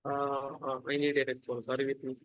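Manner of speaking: usual speaking voice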